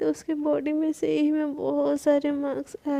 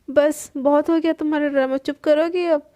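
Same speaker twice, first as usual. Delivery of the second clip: firm, louder telling-off; fed-up wife cuts her off; louder scolding; 4 dB louder than usual. Acted. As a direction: shut down her drama loudly. Palak snaps at dramatic wife.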